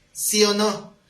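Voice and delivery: retold forceful demand; demanding confrontation. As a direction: press for an answer like a confronting pastor. Pastor demands an answer.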